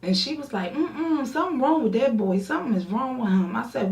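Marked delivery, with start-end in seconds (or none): 0.7-3.5 sassy disapproval. Retold or imitated. Friend judging the caller.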